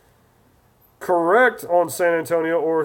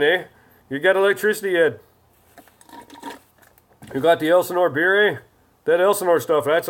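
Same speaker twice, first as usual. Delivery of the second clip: put-on light hoser-style Canadian accent; chatty comic Canadian accent; mock Canadian accent. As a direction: play up the Canadian "eh". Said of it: "Hope you know what that's from, eh?".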